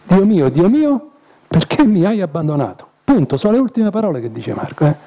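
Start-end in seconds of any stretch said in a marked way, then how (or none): 0.0-2.9 anguished cry of Jesus. Acted. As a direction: say it as Jesus crying out in abandonment. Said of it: "Gesù dice solamente questo". (grido angosciato, più alto e lento)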